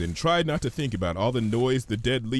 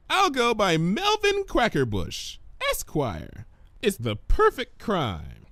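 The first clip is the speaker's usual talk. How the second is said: higher, sly playful scheme; mock sinister Pinky; 9 semitones higher than usual. Pinky plots a silly alias, mock villain. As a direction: ham up a comic crook.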